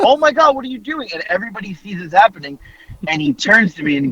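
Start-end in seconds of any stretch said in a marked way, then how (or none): 0.0-1.1 high gasp trailing off to a hush; high shocked gasp; horrified parent. Retold or imitated. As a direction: gasp in shock, then fade out. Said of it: "I'm like".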